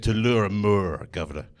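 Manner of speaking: lightly voiced French lover, slowed down. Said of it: "She said".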